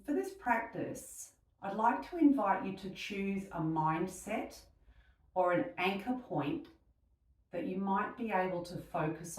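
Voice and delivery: unhurried meditation voice with long pauses; guided meditation. Real, not acted. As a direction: gently guide them into stillness, leaving space between phrases.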